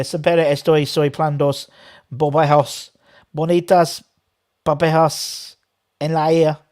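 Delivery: halting Spanish, phrase by phrase; practising Spanish. Shown as a demonstration. Fan reading the club song translated, halting put-on Spanish accent. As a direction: sound out the Spanish in separate chunks. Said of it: "we can all practice our Spanish".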